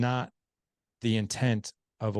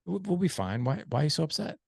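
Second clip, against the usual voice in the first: put-on dismissive old me; 4 semitones higher than usual. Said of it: "the old me would have been like".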